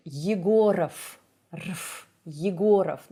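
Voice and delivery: "Yegorov" with stressed "go" and swallowed "rf" ending; reduced vowels. Shown as a demonstration. Teacher showing vowel reduction, ending shrunk to rf. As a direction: jump over the last vowel of "Yegorov". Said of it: "it actually becomes reduced".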